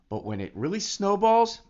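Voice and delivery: hushed, breathy tease of a secret; dramatic whisper building suspense. Real, not acted. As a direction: lean in and whisper it. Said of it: "whispered build-up".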